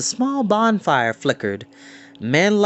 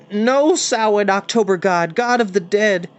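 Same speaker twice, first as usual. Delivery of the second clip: eager correction; 7 semitones higher, 3 dB louder than usual. Acted. Boys correct each other loudly.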